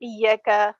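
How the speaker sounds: Iyaka slow, with a short ya and stretched ka; mistaken vowel lengths. Retold or imitated. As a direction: linger wrongly on the ka of Iyaka. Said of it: "The mistake which comes here".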